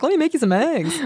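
high, light caring mom voice; a chirpy mom offering breakfast. Retold or imitated. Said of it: "So her mom's like".

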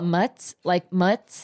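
"mutts" as Jersey short form of mozzarella; Jersey pronunciation. Shown as a demonstration. Explaining Jersey slang to her Southern co-host, "mutts" as local pronunciation. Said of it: "we call it mutts".

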